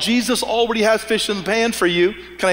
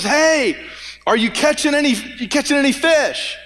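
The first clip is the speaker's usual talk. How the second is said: retold yell across water; 6 semitones higher than usual. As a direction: shout it out across the river. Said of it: "he yells to the people in the boat".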